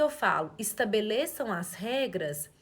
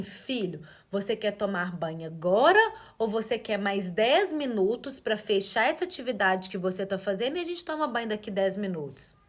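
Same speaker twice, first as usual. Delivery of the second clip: gentle offer of choice; 3 semitones lower than usual. Shown as a demonstration. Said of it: "falar assim".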